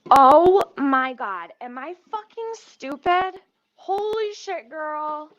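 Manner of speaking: high, stretched-out dismay at oneself; real alarm. Real, not acted. Cook spotting the wrong burner on, real alarm.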